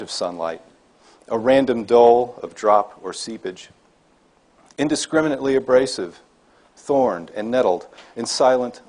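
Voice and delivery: slow, measured poem recital with pauses; deliberate, slightly lifted poet's reading voice; poetry reading. Acted. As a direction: read it line by line, weighting each phrase. Reads own poem aloud to audience.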